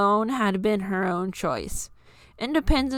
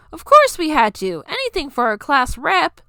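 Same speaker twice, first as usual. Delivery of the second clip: higher, louder cheerful call; cheering; 6 semitones higher, 6 dB louder than usual. Acted. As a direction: cheer her on. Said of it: "Hibuki cheered".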